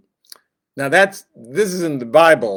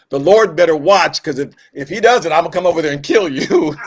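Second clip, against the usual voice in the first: half-joking threat; 2 semitones higher, 4 dB louder than usual. Retold or imitated. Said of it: "what they're saying is".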